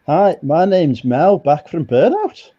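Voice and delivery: mock Australian. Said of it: "Sounds like Missus Doubtfire again".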